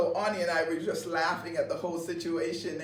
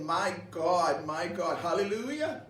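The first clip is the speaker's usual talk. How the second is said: joyful praise; slower than usual. Retold or imitated. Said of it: "I looked and I said".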